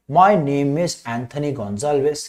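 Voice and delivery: very slow, drawn-out recitation; lightly imitated child introducing himself; child's full sentence. Shown as a demonstration. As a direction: stretch it out word by word. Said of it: "जैसे क्या बोलेगा".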